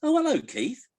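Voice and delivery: very high squawky parrot punchline. Acted. Parrot greets the husband walking in, high parrot voice. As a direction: put on a parrot voice, pitched right up. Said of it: "the parrot goes".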